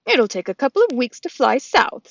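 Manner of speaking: goose voice. Acted. Loudwing the goose speaks.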